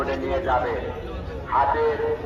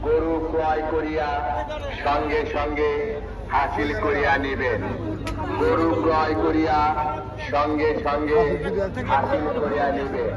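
echoing festival loudspeaker. Real, not acted. Market PA announcement repeated.

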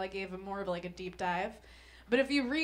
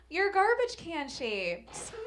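slow mock magazine verdict; 7 semitones higher, 4 dB louder, much slower than usual. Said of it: "is like".

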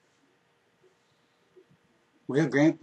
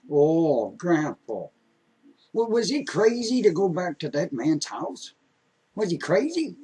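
a hint of a boy who can't believe it; lightly voiced amazed grandson; 3 semitones higher than usual. Grandson interrupts storyteller grandpa.

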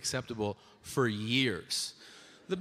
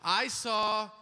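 careful correctness; 6 semitones higher, slower than usual. Retold or imitated. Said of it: "Now I gotta be like".

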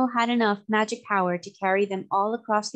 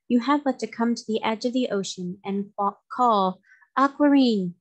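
calling out; 2 semitones higher than usual. Acted. Mermaid queen tells how to call.

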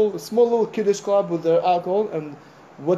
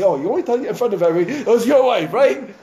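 mock accusation; 4 semitones higher, 6 dB louder than usual. Rabbi mocks the complaining husband.

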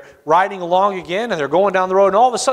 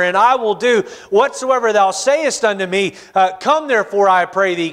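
desperate plea. Retold or imitated. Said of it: "notice the desperation in their voice".

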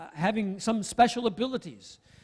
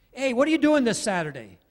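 casual friend setup; 4 semitones higher, 5 dB louder than usual. Retold or imitated. Acted friend setting up a favour.

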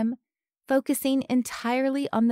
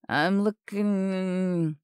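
slow, heavy, slurring words; a stroke taking hold, speech dragging; slurred speech; much slower than usual. A narrator's reading. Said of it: "words began to sound heavy and slurred".

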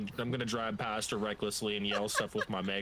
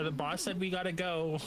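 megaphone announcement; 5 semitones higher than usual. Pretend.

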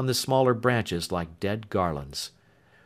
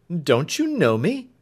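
urgent plea; 7 semitones higher, 5 dB louder than usual. Acted. Alfred pleads at the door.

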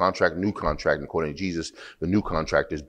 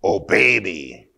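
stern command; 3 dB louder, slower than usual. Retold or imitated. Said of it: "That's the traditional way".

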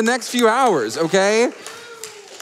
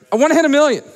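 louder, higher, punched-up declaration; rallying shout; 6 semitones higher, 5 dB louder, much faster than usual. Real, not acted. Host pushing the crowd toward a million, rousing shout. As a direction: fire up the crowd with it.

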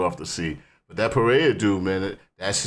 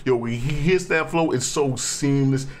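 excited; 4 semitones higher than usual. Real, not acted. Hyped about the flow.

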